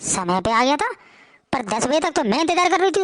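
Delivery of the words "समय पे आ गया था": much lower, skeptical echo with a rise; doubting mother-in-law. Acted. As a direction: repeat her words with disbelief. (अविश्वास से दोहराती सास)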